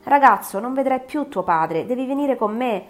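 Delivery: menacing monster. Acted. The monster answers the boy.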